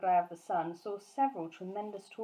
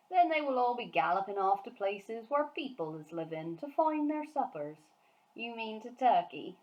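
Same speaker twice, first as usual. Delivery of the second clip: BFG's voice; 3 semitones higher, 3 dB louder than usual. Acted. Giant warning Sophie about giant hunts, animated giant voice. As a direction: rattle on like the excited friendly giant.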